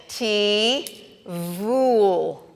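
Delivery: T then vul, split into two beats; sounding out. Shown as a demonstration. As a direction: break it into T and vul. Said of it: "So let's do it again".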